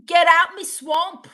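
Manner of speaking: hammed-up Scottish ogre yell; mock Scottish accent. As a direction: holler it in a put-on Scottish accent. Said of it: "I'm from Scotland".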